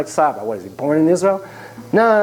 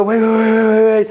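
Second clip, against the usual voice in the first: higher, rapid string of waits; urgent pleading; 4 semitones higher, 3 dB louder than usual. Retold or imitated. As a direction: hurriedly try to halt him. Therapist hurries to stop a confrontation.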